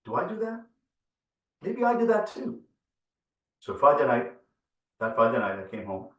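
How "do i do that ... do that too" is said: wondering to myself. Retold or imitated. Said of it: "said to myself".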